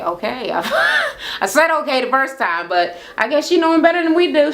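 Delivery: mock resigned son; defeated son. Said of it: "he looked completely fucking defeated".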